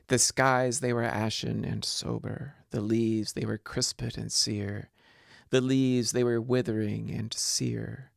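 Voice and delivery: measured, lilting reading of verse; poem recitation. Acted. Lecturer reciting Poe's Annabel Lee to the class, lilting poem reading. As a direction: let the anapests roll like a ballad. Lecturer reads Ulalume aloud.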